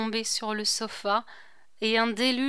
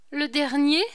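stunned echo; 6 semitones higher, 5 dB louder than usual. A narrator's reading. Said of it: "répéta-t-elle".

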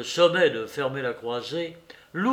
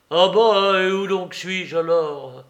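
indignant outburst; 4 semitones higher, 7 dB louder than usual. Acted. Soupe protests indignantly.

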